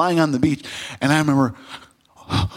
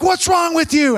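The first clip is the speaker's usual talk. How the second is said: higher, alarmed coach's question; concerned coach; 10 semitones higher than usual. Retold or imitated. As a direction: demand an answer. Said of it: "they're like".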